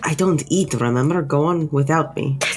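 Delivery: voice dropped right down. Acting out how another person answered the group, imitating a lowered voice. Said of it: "He like lowers his voice".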